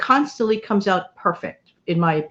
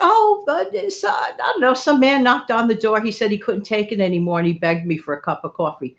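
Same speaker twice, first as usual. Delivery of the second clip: high, sheepish explaining voice that settles down; playing innocent to her husband; 4 semitones higher than usual. Wife explaining to husband about coffee stranger, high sheepish voice.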